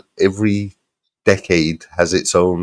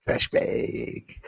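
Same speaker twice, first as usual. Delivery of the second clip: laughing; 9 dB quieter than usual. Real, not acted. Laughing while repeating the insult.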